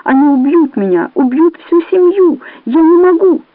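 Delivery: from scared to high, loud terror; rising panic. A narrator's reading. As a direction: panic climbing to a shriek. Panic at gunpoint.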